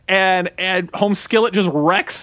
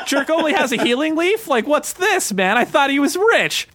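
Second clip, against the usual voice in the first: laughing disbelief; 9 semitones higher than usual. Retold or imitated. Laughing at a stingy rich man's drawers.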